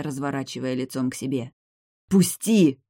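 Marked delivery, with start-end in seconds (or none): 2.1-2.8 higher, louder hissed let go. A narrator's reading. Vampiress hissing at the hero to let her go. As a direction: spit it at him while struggling. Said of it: "зашипела вампиресса".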